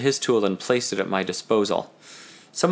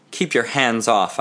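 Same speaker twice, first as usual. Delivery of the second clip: commanding; slower than usual. Acted. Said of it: "I commanded".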